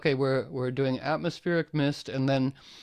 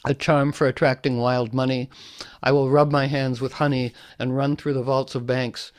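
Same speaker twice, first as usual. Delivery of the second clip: louder, measured recital of a charm; reciting a money charm poem to the group, louder and deliberate; poem reading; 4 dB louder than usual. Shown as a demonstration. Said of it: "in the spirit of Marge Piercy".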